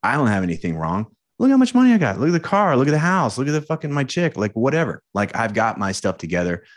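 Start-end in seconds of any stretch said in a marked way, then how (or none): 1.4-5.0 a big-noting bloke showing off his money, car and house; mock bragging posture. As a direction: puff up and brag about your stuff. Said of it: "One is the posture".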